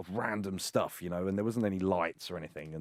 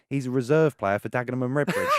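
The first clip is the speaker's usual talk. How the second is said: laughing retelling; 4 semitones higher, 6 dB louder than usual. Retold or imitated. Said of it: "I hear him go".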